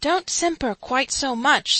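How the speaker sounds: slow grumbling aside. A narrator's reading. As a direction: scold the speaker under your breath. Man under window coaching quietly.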